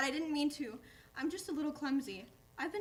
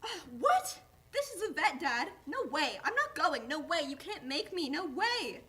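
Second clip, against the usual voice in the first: panicked refusal; 4 dB louder than usual. Acted. Dog refusing to go into the vet, loud scared protest. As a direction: dig your heels in, frightened and stubborn.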